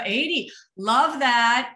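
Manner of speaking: normal talking voice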